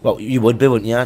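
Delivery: normal talking voice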